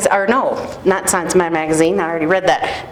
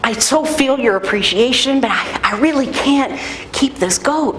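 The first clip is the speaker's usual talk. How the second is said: sweet polite. Retold or imitated. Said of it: "he's trying to be really sweet about it".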